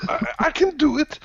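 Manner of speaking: very high, eager little voice; high character voice. Acted. Character insisting on managing the task, high squeaky voice. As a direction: pipe up in a squeaky voice.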